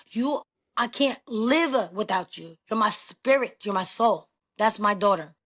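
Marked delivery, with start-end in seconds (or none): 0.1-4.3 tender slow. Shown as a demonstration. Repeating the meaning tenderly.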